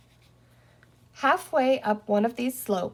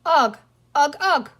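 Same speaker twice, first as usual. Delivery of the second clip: higher, louder pleading cry; cried out; 5 semitones higher, 7 dB louder than usual. Acted. Little green man crying out while holding Penny, loud. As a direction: call out urgently. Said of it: "cried the little man".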